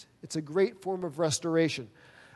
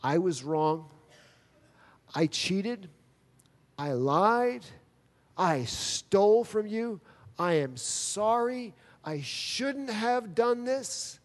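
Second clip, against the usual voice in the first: humble confession; 3 semitones higher, slower than usual. Retold or imitated. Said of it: "Jacob has to humble himself and say".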